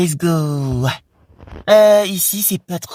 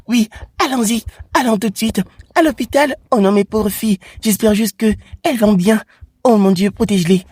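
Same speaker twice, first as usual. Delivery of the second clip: higher, mild pretend worry; a touch of a fretting mum; worried mother; 4 semitones higher than usual. Mother fearing for her injured girls, higher mild worry.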